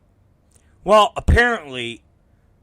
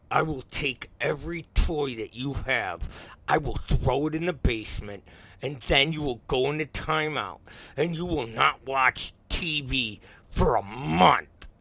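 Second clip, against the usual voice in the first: softer, deliberate, word-by-word warning; stern controlled threat; 5 dB quieter than usual. Retold or imitated. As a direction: lay down the punishment with restraint. Dad lays out measured threat.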